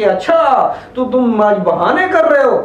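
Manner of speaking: doubting parent catching a fake excuse; suspicious accusing. Shown as a demonstration. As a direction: accuse the child of faking, sceptical. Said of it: "ये जब आप उसे बोलते हैं कि".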